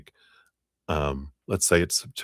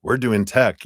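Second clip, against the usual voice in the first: smug insider; 6 semitones higher, 5 dB louder than usual. Retold or imitated. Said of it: "Oh, they're doing that".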